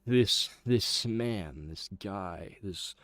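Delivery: a lightly voiced brooding orator; dramatic monologue. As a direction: condemn the fraud superhero solemnly. Acted villain-denouncing monologue.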